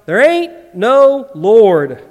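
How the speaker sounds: loud, very slow denial; mock shout. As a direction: bellow it back at the neighbour. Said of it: "he would shout".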